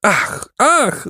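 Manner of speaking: high-pitched wail of dismay; shrieking birds. A narrator's reading. Pelicans despairing at the boy's spell, high wail. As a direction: cry out like distressed birds, no extra volume. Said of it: "wrzasnęły ptaki".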